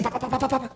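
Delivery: mock babble of a talker; chatterbox noise. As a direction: rattle it off like someone who never stops. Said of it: "Tem gente que é assim".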